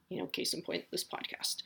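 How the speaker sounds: soft, voiceless aside; whispered aside. Real, not acted. Host whispering a wry plug for her podcast. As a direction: drop to a whisper for the joke.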